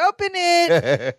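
very high, drawn-out chant; group urging. Retold or imitated. Party guests urge the gift opener, high mock squeal. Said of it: "everyone's going".

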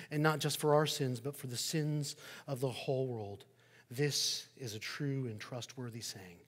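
measured, reverent prayer voice; leading communion prayer, reverent and measured. Acted. Leads a prayer before communion.

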